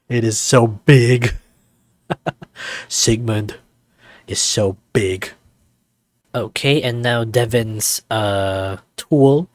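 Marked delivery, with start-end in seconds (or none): 0.1-5.3 giggling through slow words, louder; can't keep a straight face; real amused giggle; laughing. Real, not acted. Giggling at the animation.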